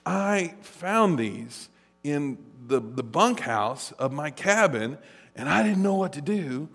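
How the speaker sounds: a lightly voiced guilty camp counselor; sheepish counselor. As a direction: mumble it like a guilty man. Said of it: "He goes".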